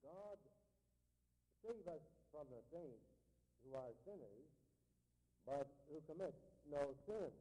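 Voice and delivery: hushed, grave reading of Luther's words; quiet quote. Retold or imitated. Preacher quoting Luther to the congregation, hushed and grave.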